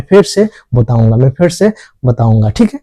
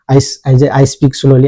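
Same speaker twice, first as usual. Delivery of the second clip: slow practice drill; much slower than usual. Shown as a demonstration. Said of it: "ये आप पांच बार इसको repeat कीजिए".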